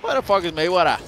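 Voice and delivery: loud, high disbelief; incredulous. Real, not acted. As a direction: blurt it out in disbelief. Incredulous outburst.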